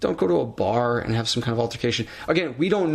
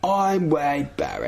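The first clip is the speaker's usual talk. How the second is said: slow, higher wrestler introduction; Wade Barrett impression; 4 semitones higher, slower than usual. Host echoing co-host's impression, slow and hammed-up. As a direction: draw out the name, pitched up. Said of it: "that was kind of Wade Barrett".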